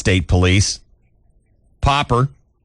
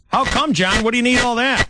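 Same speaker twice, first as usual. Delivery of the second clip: mock incredulous. Mock question to John Popper.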